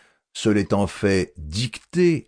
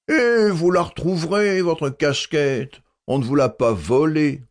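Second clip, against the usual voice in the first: voix plus douce; 6 semitones higher than usual. A narrator's reading. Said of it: "d'une voix plus douce".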